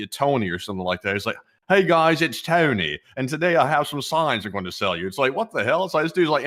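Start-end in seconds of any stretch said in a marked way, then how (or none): 1.7-5.1 light mock Southern sales pitch; imitated Southern accent. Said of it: "he uses the Southern accent".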